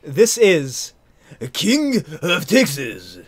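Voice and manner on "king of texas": slow drawling Texan title read; Texan accent. Shown as a demonstration. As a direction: say it like a Texas cowboy. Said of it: "That's a Texan accent".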